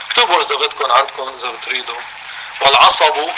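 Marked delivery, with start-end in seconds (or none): 2.6-3.3 والعصب said as wal-ʕasabu, both vowels open; vowel-marked reading. Shown as a demonstration. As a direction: sound out والعصب with fatha on ʕa and sa. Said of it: "بفتحتين".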